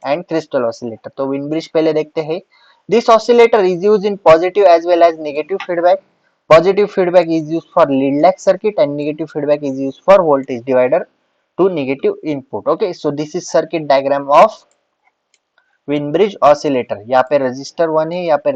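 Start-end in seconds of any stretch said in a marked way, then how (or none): 2.9-12.7 slow, deliberate note-dictation voice; dictating notes to the class. Acted. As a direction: spell it out slowly so students can write.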